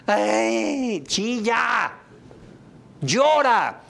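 high, loud mock crying wail; hammed-up wail. Shown as a demonstration. Speaker acting out crying after being left, loud mock wail. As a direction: wail as if sobbing over the breakup. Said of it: "¿Y qué haces?".

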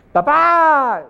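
high, loud call for dad; child shouting. Retold or imitated. The boy calls his dad across the cave, loud shout. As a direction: yell papá like a kid in a cave. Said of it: "Y el niño grita".

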